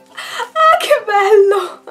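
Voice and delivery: high, slow squeal, half laughing, half crying; overwhelmed squeal. Real, not acted. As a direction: gush over it, laughing through tears. Overwhelmed by the box contents.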